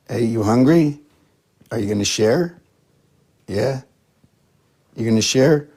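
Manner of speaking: high, loud cooing sing-song; pet talk to cat. Real, not acted. Owner greeting her cat, high playful pet voice. Teasing the cat about food.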